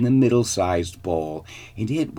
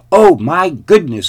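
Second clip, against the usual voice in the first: high, loud exclamation; startled cry; 9 semitones higher, 11 dB louder than usual. A narrator's reading. Girl wakes to see three bears, startled cry. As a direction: cry out on waking in alarm. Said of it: "cried Goldilocks".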